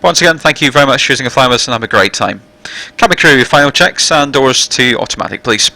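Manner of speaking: captain's PA announcement. Real, not acted. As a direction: welcome passengers over the intercom. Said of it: "it means the passenger announcement now".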